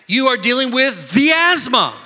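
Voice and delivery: THE punched before asthma; stress on THE. Shown as a demonstration. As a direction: hit THE hard to disown the asthma. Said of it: "you don't have to say".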